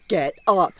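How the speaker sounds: loud, urgent get-up calls; urgent panic. Acted. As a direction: rouse everyone in alarm. Crew panics at the mold.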